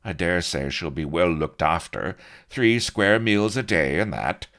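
breezy, uncaring dismissal; callous. A narrator's reading. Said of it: "He shrugged callously".

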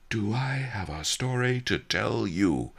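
out of breath, words between gasps; panting. Acted. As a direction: pant it out after the climb. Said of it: "I panted".

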